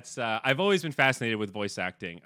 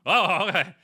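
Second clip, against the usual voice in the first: much higher and louder, flustered surprise; startled cashier; 11 semitones higher, 7 dB louder than usual. Retold or imitated. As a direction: imitate a startled clerk covering up. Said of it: "and they're like".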